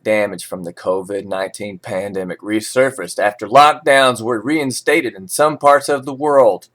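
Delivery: steady newsreader delivery of market levels; measured financial news read. Acted. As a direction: read it like a forex bulletin. Reads forex news script.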